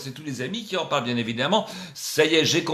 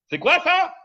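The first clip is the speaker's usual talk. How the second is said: mock high question; 7 dB louder, slower than usual. Showing off costume, mock question.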